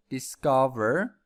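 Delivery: discover with a clear voiced V in the middle; clear V sound. Shown as a demonstration. Teacher pointing out the V sound, discover. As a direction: make the V in discover buzz clearly. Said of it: "V sound".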